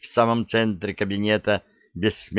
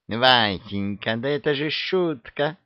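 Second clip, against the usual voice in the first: scared; 3 semitones higher than usual. Acted. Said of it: "испугалась".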